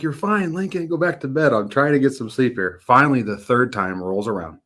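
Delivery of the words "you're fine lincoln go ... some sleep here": higher-pitched mock-exasperated dad; retold impatient reassurance. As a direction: brush off a child, higher, mildly exasperated. Retold weary dad dismissing scared son.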